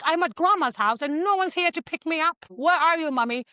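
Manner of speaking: high, mildly acted child's questioning; daughter calling mom. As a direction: plead a little as the lost daughter. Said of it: "Her daughter calls her".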